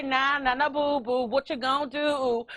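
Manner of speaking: singsong mock taunt; cheeky nah-nah chant; taunting seal. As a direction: tease like a playground brat. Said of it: "he basically looked over to say".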